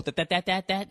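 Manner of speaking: "that" rattled off over and over like a stutter; Porky Pig stutter. Retold or imitated. Comic mocking his own stuck "that, that", cartoon stutter. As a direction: stammer on "that", repeating it in a quick even run. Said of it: "I sound like fucking Porky Pig".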